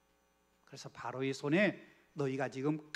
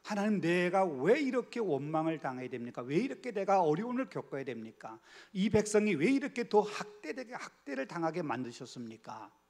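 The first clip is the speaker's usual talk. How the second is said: louder, rising protest that builds to a high, loud cry; complaining to God; 4 semitones higher, 4 dB louder than usual. Acted. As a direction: plead with God in rising frustration. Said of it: "불평하고 원망하는". (점점 격해지는 원망)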